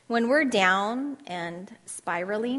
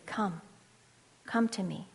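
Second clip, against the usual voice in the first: softer, gentle invitation; tender call; 2 semitones lower, 3 dB quieter than usual. Pretend. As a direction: coax them near, softly. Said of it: "Jesus would say to you today".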